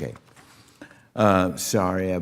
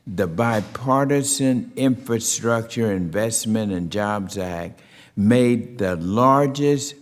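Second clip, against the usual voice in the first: measured, formal hearing-room delivery; formal opening statement; 2 semitones higher than usual. Real, not acted. Chair opening a hearing on rural broadband, formal speech. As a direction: read it as prepared remarks for the record.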